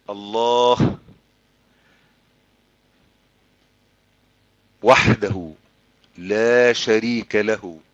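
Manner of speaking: low, slow, spaced-out creed; solemn declaration. Real, not acted. Preacher affirming God alone without partner, solemn declaration. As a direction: let each phrase stand between long pauses.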